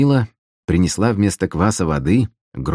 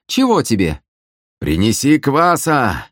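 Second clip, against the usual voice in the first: calling out; 7 semitones higher than usual. Acted. Shouting across tavern.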